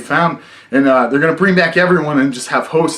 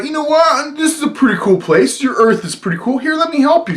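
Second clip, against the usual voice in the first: parasite voice; 9 semitones higher than usual. Retold or imitated. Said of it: "he realizes, like".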